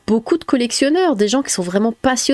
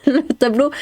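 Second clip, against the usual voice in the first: laughing; 5 semitones higher than usual. Real, not acted. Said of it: "j'ai le nez bouché".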